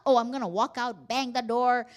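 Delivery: loud mock outburst of someone leaving a quarrel; angry storming-out. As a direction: threaten to storm out, punching it loudly. Acted storming out of an argument.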